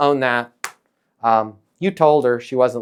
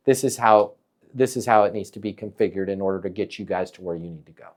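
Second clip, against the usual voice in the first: calm voice; 8 semitones lower, 6 dB quieter than usual. Shown as a demonstration. Coach showing a client the calm voice. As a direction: lower and softer, steady and unhurried. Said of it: "Calm voice".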